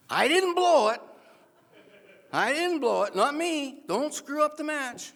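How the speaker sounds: high, loud frantic protest; desperate high-pitched denial; panicked denial. Retold or imitated. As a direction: blurt it out in panic, pleading innocence.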